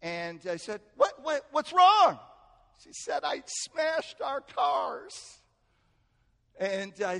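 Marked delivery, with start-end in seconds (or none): 1.0-2.2 high, loud worried question; alarmed. Retold or imitated. Reacting to distraught wife. 3.2-5.4 high, drawn-out mock wail; distraught and crying. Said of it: "she was distraught and crying".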